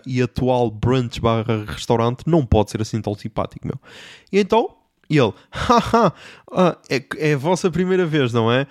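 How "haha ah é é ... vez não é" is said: a hint of a smooth radio-host waiter; mild mock radio voice. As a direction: lightly put on overly friendly host. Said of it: "com aquela voz".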